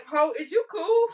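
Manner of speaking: slow, teasing mock concern with a break; mocking imitation. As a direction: imitate the classmate, laughing. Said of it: "He literally said".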